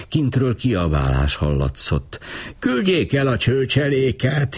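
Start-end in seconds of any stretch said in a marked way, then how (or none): 2.6-4.6 high wailing plea. A narrator's reading. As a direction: whine it out in distress. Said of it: "jajdult fel a férfi".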